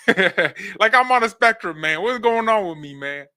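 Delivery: laughing through a lisp. Real, not acted. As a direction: laugh while talking. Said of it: "I sound like a complete".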